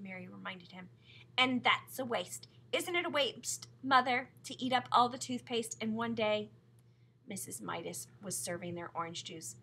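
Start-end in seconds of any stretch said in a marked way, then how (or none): 1.4-6.5 louder, higher appeal to Mother; indignant tattling. A narrator's reading. Sister complaining to Mother about wasted toothpaste, indignant. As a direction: press the complaint like a tattling child.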